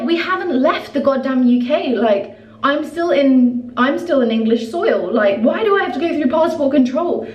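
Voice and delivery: reliving her fury at the airline; exasperated outrage. Retold or imitated. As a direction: let the disbelief build, pitch climbing. Outraged at being sent through passport.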